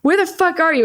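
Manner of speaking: high-pitched, mock-angry demand; retold anger. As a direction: act out being mad at a parent. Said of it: "I got mad at my dad".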